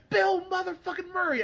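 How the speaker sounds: high, loud star-struck shout; excited shout. Retold or imitated. Fan greeting a star in a movie, star-struck shout. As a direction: hail the star like a fan seeing him in person. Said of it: "he's just like".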